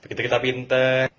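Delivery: usual speaking voice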